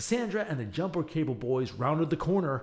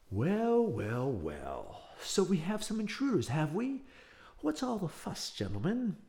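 gloating villain; 4 semitones higher than usual. Acted. Evil Professor Waverly mocking the intruding boys, gloating. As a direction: savour catching the intruders.

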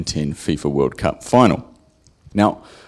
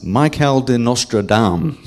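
French accent; 4 semitones higher than usual. Shown as a demonstration. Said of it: "excuse my horrible French accent".

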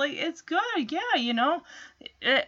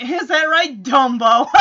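mocking Chip; 7 dB louder than usual. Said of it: "Like, this laugh that he's got".

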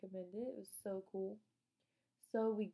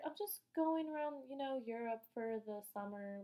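imitated casualness. Rich girl telling about her Europe summer, mock casual. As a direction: mimic her tossing it off casually, unhurried. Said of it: "she was acting all casual".

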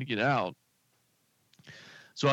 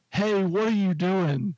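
higher, drawn-out imitation of a yelling officer; mock yell; 5 semitones higher than usual. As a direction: imitate an officer calling a driver out, slowly. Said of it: "like, she yells at me".

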